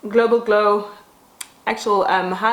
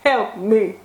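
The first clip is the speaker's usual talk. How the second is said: put-on pleading child; slower than usual. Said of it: "I was".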